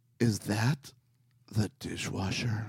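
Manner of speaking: super deep, soft, sultry, sexy voice. Retelling what the wife said one evening: mock deep sultry sexy voice. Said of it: "in that super deep, sultry, sexy voice".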